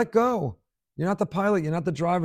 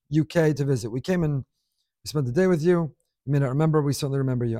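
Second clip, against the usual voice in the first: letter reading; 3 dB louder, faster than usual. Acted. Reads a listener's email aloud.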